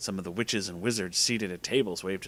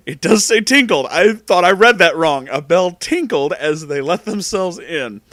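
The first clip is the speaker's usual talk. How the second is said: loud, high, amused reading; cracking up while reading; real laughing; 6 semitones higher, 10 dB louder than usual. Real, not acted. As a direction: fight through giggles, getting loud. Cracking up at the word tinkled.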